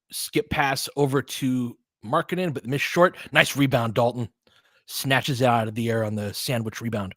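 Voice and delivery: running game call, steady and informative; play-by-play. Acted. Fan calling the game for listeners, play-by-play. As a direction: call the action like a broadcaster.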